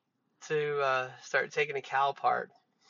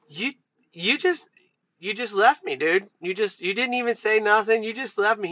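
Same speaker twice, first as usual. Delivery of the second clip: mock-hurt accusation; 5 semitones higher than usual. Confronts laughing coworker in van.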